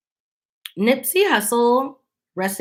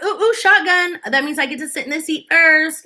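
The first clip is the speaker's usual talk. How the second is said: put-on eager kid calling shotgun; 5 semitones higher than usual. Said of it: "You know, like".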